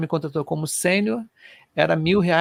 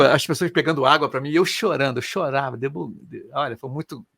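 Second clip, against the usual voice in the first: ordinary talk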